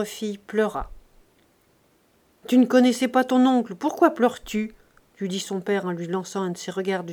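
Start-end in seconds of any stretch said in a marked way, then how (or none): 2.5-4.7 raised, reproving question; stern rebuke. Acted. Father to his weeping daughter, stern rebuke. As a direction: challenge the tears, higher and louder at first.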